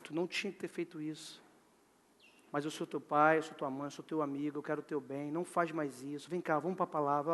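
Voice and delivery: low, soft fatherly reproof; understanding dad, voice kept low; gentle father correcting. Acted. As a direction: correct him quietly and reassure him. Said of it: "ele falou".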